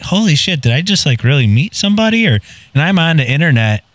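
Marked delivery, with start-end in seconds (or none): 0.0-2.3 high, stunned disbelief; retold amazement. A storyteller recalls realizing he met a celebrity, stunned. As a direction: gasp it out like you can't believe who you met. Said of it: "'Cause I'm like".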